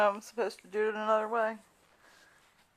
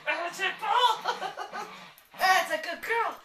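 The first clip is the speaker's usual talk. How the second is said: talking to a dog; 7 semitones higher, 4 dB louder than usual. Real, not acted. Praising dog in high voice.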